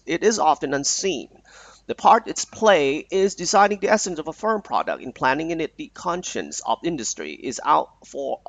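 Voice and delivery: reading an exam passage aloud, very slowly and evenly; careful slow reading of an English text. Shown as a demonstration. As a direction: read it out slowly for the class to follow.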